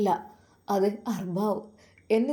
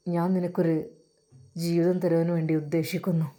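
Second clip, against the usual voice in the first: lower employer voice; 5 semitones lower than usual. Acted. Employer coaxing the housemaid Raziya, low and smooth. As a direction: speak down to her as the boss.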